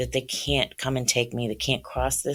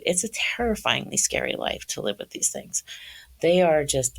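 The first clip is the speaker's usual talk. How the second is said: choking up, voice going tight and teary; fighting back tears mid-sentence; 2 semitones higher than usual. Real, not acted. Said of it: "so I get teary when I think about this".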